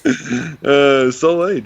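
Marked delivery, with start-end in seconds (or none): 1.1-1.6 repeated louder and higher for clarity. Real, not acted. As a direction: say it again, louder so he hears. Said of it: "You what?".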